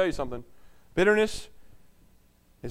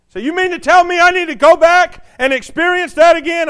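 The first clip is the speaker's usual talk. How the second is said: loud, higher disbelieving protest; incredulous objection; 11 semitones higher, 13 dB louder than usual. Retold or imitated. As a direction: sound shocked at the idea. Voicing a doubting listener.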